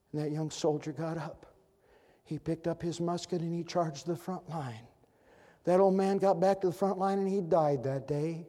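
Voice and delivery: ordinary delivery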